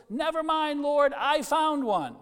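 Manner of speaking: high, loud, slow brush-off; offhand dismissal. Retold or imitated. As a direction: wave God off now she's got her spot. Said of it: "lifts up her head and goes".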